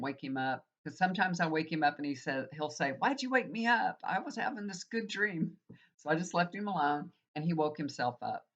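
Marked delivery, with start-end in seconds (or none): 2.9-5.6 grumpy husband. Retold or imitated. Quoting husband woken from dream.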